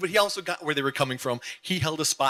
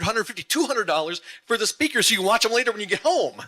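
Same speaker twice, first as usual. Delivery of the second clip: mock incredulous listener; 4 semitones higher than usual. You might go.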